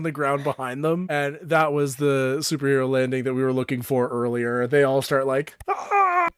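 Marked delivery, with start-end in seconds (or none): 5.7-6.3 high, awed crowd gasps; awed tribe gasps. Acted. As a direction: gasp in wonder as a crowd.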